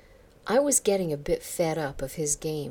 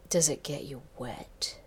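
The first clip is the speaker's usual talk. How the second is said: breathy whispered leer; lewd. Acted. Boss lewdly whispering a question to Karen, mild leer. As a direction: hiss it suggestively. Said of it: "he asked lewdly".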